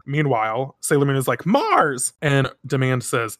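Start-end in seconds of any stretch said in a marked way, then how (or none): 1.4-2.1 high, retold cry of a name; mock cry. Sailor Moon calls to her captured friend, high mock cry. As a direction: call out high, without a full shout.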